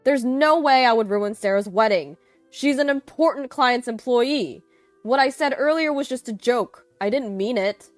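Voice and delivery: loud, high-pitched backpedalling; desperate flimsy defense. A narrator's reading. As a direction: plead your excuse frantically. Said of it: "Ethan continued with his flimsy defense".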